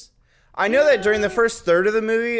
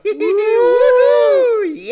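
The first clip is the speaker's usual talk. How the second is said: high, loud swooning whoop; mock audience whoop; 7 dB louder, much slower than usual. Women in the audience cheering at the guard, high loud whoop. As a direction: cheer like a giddy crowd at the screen. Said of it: "all the women in the audience would go".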